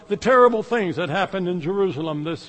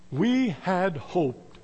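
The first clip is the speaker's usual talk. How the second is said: heavy quoted line; 4 dB quieter, much slower than usual. Retold or imitated. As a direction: let each word sink with the preacher's grief. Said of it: "One preacher got a hold of that passage".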